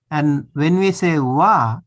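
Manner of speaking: "wa" with a wide open a; open-vowel "wa". Shown as a demonstration. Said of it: "this is open".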